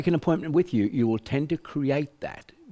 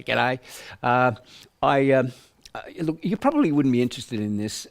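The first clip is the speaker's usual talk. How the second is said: hesitant caller. Retold or imitated. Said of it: "call me and say".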